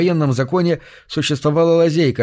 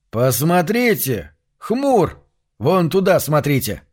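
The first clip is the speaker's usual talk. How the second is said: excited shout; 4 semitones higher, slower than usual. Acted. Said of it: "закричал Лен".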